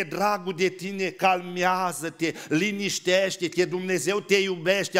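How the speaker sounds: slow, syrupy comforting; mock soothing. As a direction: soothe like a doting parent, mockingly. (mângâiere dulceagă, imitată)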